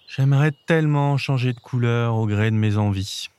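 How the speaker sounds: understated wistful sigh; sighing chameleon. Acted. Undecided chameleon wishing aloud, mildly sighing. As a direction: sigh it lightly, with longing. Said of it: "Il soupirait".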